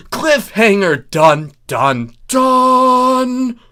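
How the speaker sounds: loud dramatic dun dun dun; loud mock suspense fanfare; hammed-up cliffhanger. A narrator's reading. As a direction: belt it like a melodrama sting. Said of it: "dramatic sting".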